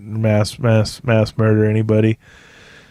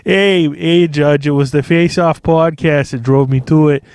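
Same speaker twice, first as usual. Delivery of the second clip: pleading with the judge; 3 semitones higher than usual. Retold or imitated. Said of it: "where he's like".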